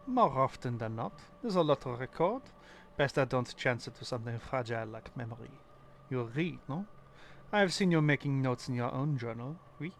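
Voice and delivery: lightly put-on French accent; a hint of a French scholar. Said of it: "butcher the French accent".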